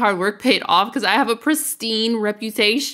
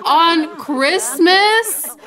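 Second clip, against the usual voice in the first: incredulous laugh; 6 semitones higher, much slower than usual. Real, not acted. Mom died on Christmas.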